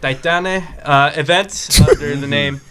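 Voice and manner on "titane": careful Spanish-accented "Guerra de Titane". Shown as a demonstration. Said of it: "Do it in your best Spanish accent".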